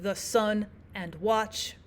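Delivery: weak the, strong sun, weak and, strong watch, slowly; slow weak-strong beat on sun and watch; iambic stress. Shown as a demonstration. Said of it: "one unstressed syllable versus one stressed".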